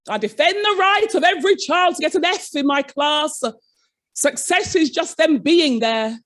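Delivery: a light send-up of a pompous teacher; his voice. Retold or imitated. Colleague repeating his claim to the governors, mimicked pompously. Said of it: "in that voice".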